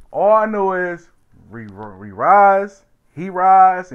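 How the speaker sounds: loud, raw cry of outrage; retold shout. Retelling the courtroom outburst, shouted. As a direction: yell it across the courtroom.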